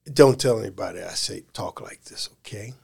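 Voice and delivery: hushed, unvoiced aside in the quote; retold whisper. Telling Tom to keep it secret, whispering. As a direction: drop to a conspiratorial whisper.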